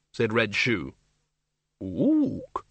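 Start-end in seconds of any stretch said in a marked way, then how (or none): 1.8-2.6 high orangutan ook; ape grunt. Acted. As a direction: hoot it like an ape. Orangutan librarian speaks.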